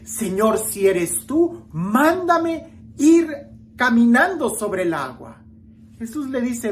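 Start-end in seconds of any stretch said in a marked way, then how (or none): 0.0-5.4 slow, stretched request rising high on the command; impulsive plea. Retold or imitated. Preacher voicing Peter asking to walk on water, impulsive. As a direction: build to a high, drawn-out command, then ease off. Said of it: "ese impulso de".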